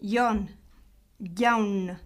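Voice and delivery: "Yon, yaun" opening on a y-like glide; J close to Y. Shown as a demonstration. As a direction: Basque J in "Yon, yaun", near a y. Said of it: "Le son du J est proche du Y". (« Yon, yaun » : j proche du y)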